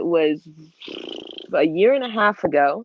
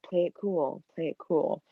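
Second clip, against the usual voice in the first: playing it cool; 7 dB quieter than usual. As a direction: coach yourself under your breath to stay calm. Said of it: "I pull a Peter Parker".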